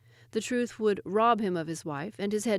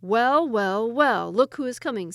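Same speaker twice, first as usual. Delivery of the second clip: sly stage whisper; 4 semitones higher, 9 dB louder, slower than usual. Acted. Ahmad feigns spotting someone.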